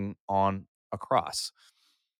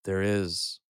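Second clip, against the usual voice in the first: youth pastor voice. Shown as a demonstration. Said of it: "you ready for my youth pastor voice?".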